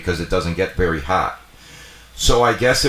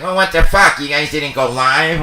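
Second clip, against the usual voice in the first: Nikki's surprise; 8 semitones higher, 6 dB louder than usual. Retold or imitated. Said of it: "Nikki's like".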